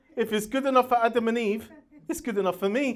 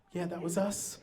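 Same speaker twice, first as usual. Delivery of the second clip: mock smug admission; 6 semitones lower, 10 dB quieter than usual. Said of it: "Greenpeace weren't like".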